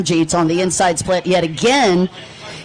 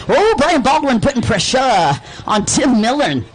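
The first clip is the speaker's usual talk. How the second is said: Texas accent; 5 semitones higher than usual. Real, not acted. Commentator calling a pass to the audience, Texas accent. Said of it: "Texas accent came back".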